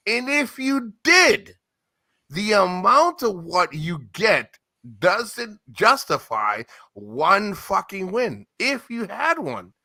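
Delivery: rising angry rant. Real, not acted. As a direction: tear into him, voice climbing. Heated rant at older man.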